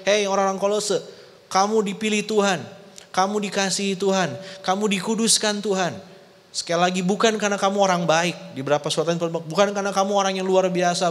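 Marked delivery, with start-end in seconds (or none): 0.1-6.0 higher, urgent reminder to the church; Paul admonishing. Acted. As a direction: call out to the Colossians like Paul pleading. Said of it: "Paulus mengingatkan". (Paulus menegur jemaat dengan nada lebih tinggi)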